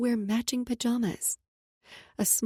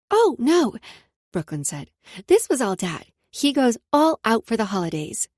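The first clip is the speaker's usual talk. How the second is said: put-on little girl; 6 dB louder than usual. Child voice.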